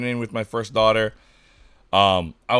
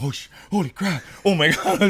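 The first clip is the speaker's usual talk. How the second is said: higher, half-laughing alarm; a light mock panic; panicked shock; 7 semitones higher than usual. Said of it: "and I'm like".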